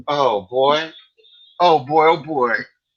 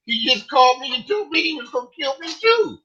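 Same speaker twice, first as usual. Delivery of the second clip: retold shock; 9 semitones higher than usual. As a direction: blurt it out in disbelief. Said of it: "I'm like".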